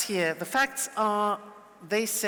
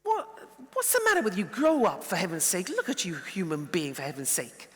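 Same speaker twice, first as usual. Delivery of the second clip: jackal reaction. Acted. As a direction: scold them like a jackal. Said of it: "the jackal would react to an angry person something like this".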